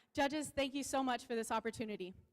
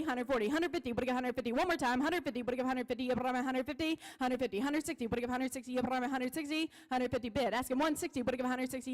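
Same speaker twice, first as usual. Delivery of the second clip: rapid rolling auction chant; auctioneer. Acted. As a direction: rattle off the bids like an auctioneer. Auction chant bid calling.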